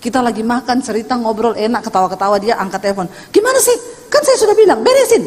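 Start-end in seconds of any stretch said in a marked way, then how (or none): 3.3-5.3 much higher, louder mock scolding; imitating angry phone call. Rich man scolding his staff by phone, mimicked high and loud.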